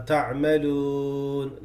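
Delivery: تعملون with a very light, unrounded waw; very light تعملון. Shown as a demonstration. Teacher showing a wrong light تعملון. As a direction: let the waw of تعملون go slack. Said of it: "like this".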